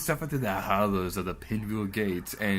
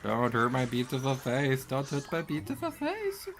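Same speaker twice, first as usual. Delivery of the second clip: hammed-up vain plea, rising higher; mock pleading; 4 semitones higher than usual. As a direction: protect your pretty face, dramatically. Pleading to enemy.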